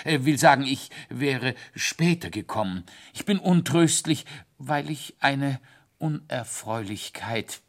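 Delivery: a flustered little root-man, apologetic; embarrassed teacher. Acted. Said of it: "sehr verlegen".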